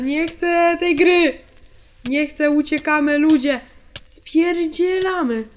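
drawn-out frightened cry to run; panicked pleading. Real, not acted. Gamer pleads with viewers to flee, frightened. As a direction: beg to escape, half laughing in fear. Fleeing the game in fear.

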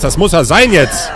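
excited shout. Real, not acted. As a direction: call it out, thrilled. Repeats, second time shouted.

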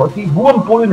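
furious yell; berserk rage. Real, not acted. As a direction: shout it in frustration. Raging at police cars.

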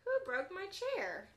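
put-on Baby Bear crying out. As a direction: cry out like a small bear who's been wronged. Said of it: "cries Baby Bear".

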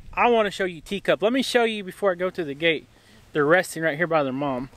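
talking while chewing gum. Real, not acted. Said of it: "I had chewing gum in my mouth".

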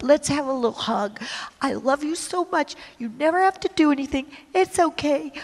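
hammed-up cooing tenderness, rising to high smooches; mock sweet God. Mimicking the sweet words God did not say. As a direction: coo like a doting parent, mockingly. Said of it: "he didn't say it with a nice, little, sweet, kind".

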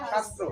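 শাস্ত্র with tongue curled back to the palate; retroflex sh demo. Shown as a demonstration. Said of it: "জিহ্বাটা উল্টে যাচ্ছে কিন্তু". (জিভ উল্টে শাস্ত্র)

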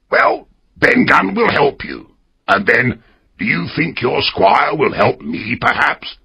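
lightly voiced castaway pleading for rescue; hopeful castaway. A narrator's reading. Ben Gunn bargains.

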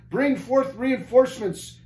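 high, stretched-out yell; desperate lieutenant yelling for help; scream. A narrator's reading. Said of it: "screamed the lieutenant".

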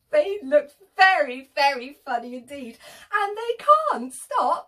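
loud, rising storybook excitement; excited narration. A narrator's reading. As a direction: build up the silly fun. Animals find hats hilarious.

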